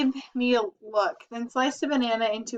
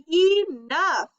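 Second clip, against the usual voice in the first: loud, higher commanding shout; 6 semitones higher, 5 dB louder than usual. A narrator's reading. Grandma shouting to stop the brothers fighting. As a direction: stop everyone dead. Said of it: "Grandma shouted".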